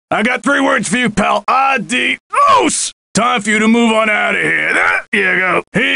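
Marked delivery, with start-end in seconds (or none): 1.5-4.4 high shouted send-off; shouted goodbye. Acted. Bouncer shouting goodbye at an ejected guest. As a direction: yell it as you toss them out.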